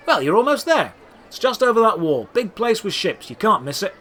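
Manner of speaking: lightly voiced helpful merchant; helpful shopkeeper. A narrator's reading. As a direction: point the way warmly. Shopkeeper gives directions.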